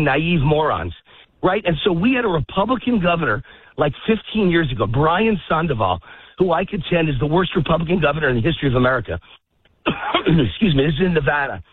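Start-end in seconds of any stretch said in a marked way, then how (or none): 6.4-11.6 breathless while walking; out of breath. Real, not acted. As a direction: talk while short of breath. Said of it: "I'm out of breath again".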